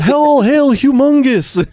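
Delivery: high-pitched, stretched-out mock hail; lookout's drawn-out cry of acclaim; distant herald's call. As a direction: chant it slowly as an imitated far-off follower. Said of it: "You just hear".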